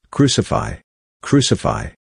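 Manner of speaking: a restrained narrator's version of a shouting crowd; understated shout. A narrator's reading. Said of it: "they shouted".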